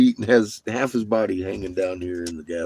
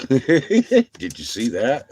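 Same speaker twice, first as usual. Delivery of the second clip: slow amazed quote; 6 semitones higher, 7 dB louder, much slower than usual. Retold or imitated. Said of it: "have been like".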